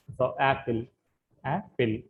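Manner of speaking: యాపిల్ with యా stressed; stress on first syllable. Shown as a demonstration. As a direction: hit యా in యాపిల్. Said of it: "first దాని మీద stress ఇస్తున్నామండి".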